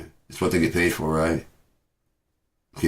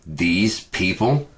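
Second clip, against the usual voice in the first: incredulous echo; 2 semitones higher, much slower than usual. Retold or imitated. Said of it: "And it's like".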